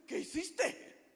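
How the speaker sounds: gently dramatized rebuke, drawn out; lightly voiced, slow challenge; Holy Spirit. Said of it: "Me dice el Espíritu Santo".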